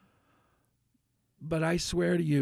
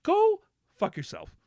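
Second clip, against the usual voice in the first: high, slow furious shout; angry outburst; 11 semitones higher than usual. Retold or imitated. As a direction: spit it out at her, fed up. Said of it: "that's when I was gonna say".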